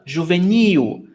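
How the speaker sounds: juvenil with a long stressed NIL; stress on last syllable. Shown as a demonstration. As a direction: stretch the final syllable of juvenil. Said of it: "the stressed syllable is the last one".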